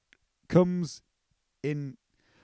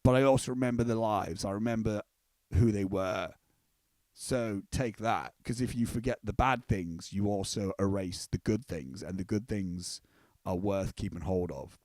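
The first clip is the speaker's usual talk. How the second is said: gentle sheep wisdom; 6 semitones lower than usual. Retold or imitated. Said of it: "he goes".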